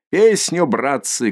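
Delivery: high loud call for a song; rowdy call. Acted. A reveller calling for a song, a high rowdy shout. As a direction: call out to the lads on the cart. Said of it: "кричит кто-то с телеги".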